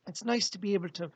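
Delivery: a lightly voiced spirit guide, jovial greeting; cheerful spirit guide saying hello to the living; Fletcher channeled spirit. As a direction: speak as a friendly visiting spirit through the medium. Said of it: "this is Fletcher".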